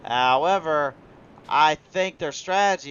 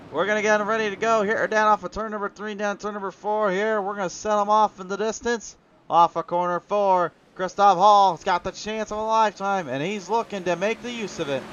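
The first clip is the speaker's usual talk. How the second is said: race commentary; 4 semitones higher, 4 dB louder than usual. Real, not acted. Live race play-by-play.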